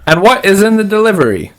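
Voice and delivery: high, quick, weird official voice; strange, high gatekeeper voice; weird attendant. Acted. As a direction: question them in an odd high-pitched voice. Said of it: "they sound weird".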